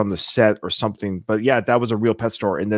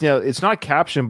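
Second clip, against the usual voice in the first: ordinary talk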